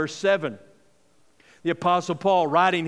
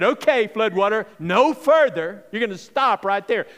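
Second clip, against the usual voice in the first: firm, slightly raised order to halt; commanding; 3 semitones higher, 4 dB louder than usual. Pretend. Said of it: "How many of us stood there and said".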